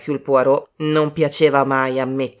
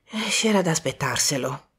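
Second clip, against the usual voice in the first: softly grave, resigned; 5 dB quieter than usual. Acted. Poirot accepts his fate as a bachelor, gravely. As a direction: answer soberly, with lowered volume. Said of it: "disse Poirot in tono grave".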